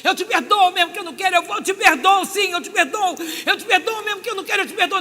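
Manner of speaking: high, loud repeated vow; ecstatic declaration. Retold or imitated. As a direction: cry it out, overcome with release. Forgiveness prayer building up. (declaração extática, aguda e alta)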